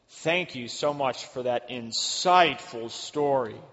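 condescending. Retold or imitated. Coworker mocking a colleague's story, slow and condescending. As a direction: drag out a snide thank-you. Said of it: "in the most really condescending way".

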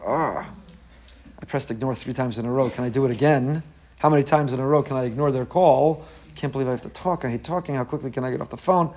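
low, soft, reluctant grumble; acted dread. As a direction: play someone dreading an incoming call. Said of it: "stomach turns in knots, and you go".

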